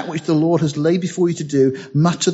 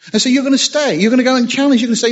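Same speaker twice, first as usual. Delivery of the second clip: rising fervour; 10 semitones higher, 3 dB louder, faster than usual. Acted. Preacher building urgency.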